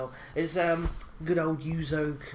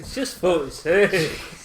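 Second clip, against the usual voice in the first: laughing mock repeat; 3 semitones higher, 9 dB louder, slower than usual. Mocking repeat of friend's line.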